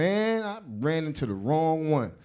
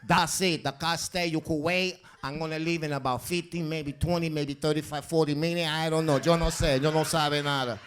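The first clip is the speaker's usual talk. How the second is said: put-on old Latina woman. Old Latina woman refusing to give up the parking spot, stubborn. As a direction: dig in like a tiny stubborn grandma. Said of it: "old Latino woman".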